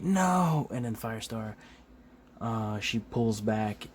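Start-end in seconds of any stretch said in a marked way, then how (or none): 0.0-0.7 high, loud drawn-out refusal; Spider-Man. Retold or imitated. Spider-Man objecting to the killing, high loud cry. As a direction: cry out a mock horrified no. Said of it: "Spider-Man's like".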